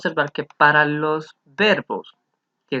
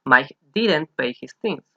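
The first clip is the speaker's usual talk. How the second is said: slow model sentence; slower than usual. Shown as a demonstration. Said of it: "Mike did not o Mike didn't".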